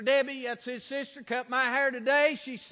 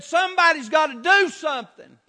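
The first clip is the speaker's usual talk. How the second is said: urgent retold plea; 4 semitones higher, 6 dB louder than usual. Retells courthouse worker's urgent plea.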